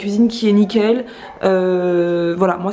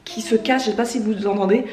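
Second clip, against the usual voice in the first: hoarse voice breaking from a cold; voice cracking. Real, not acted. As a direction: let the voice crack and fade. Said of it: "J'ai la voix qui, qui se casse".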